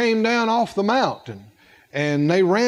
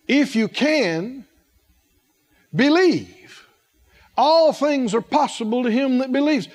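long pause after if you can, then believe; preacher's pause before believe; dramatic pause; 2 semitones higher than usual. Shown as a demonstration. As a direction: hold the silence before believe. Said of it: "The reason I paused like that".

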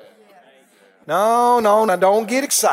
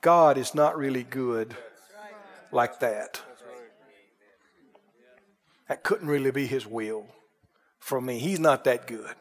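low, soft doubting murmur; doubting inner voice; 9 semitones lower, 8 dB quieter than usual. Retold or imitated. Believer quietly deciding God is not good, low murmur. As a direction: let the doubt sink down quietly. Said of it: "is deciding".

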